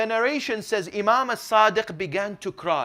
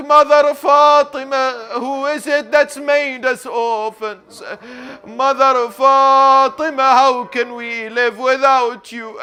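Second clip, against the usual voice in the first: crying out in grief; 6 semitones higher, 9 dB louder than usual. Acted. Hussein calls to his dead mother, crying out in grief. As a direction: wail the name, then lament the question. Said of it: "he cries out".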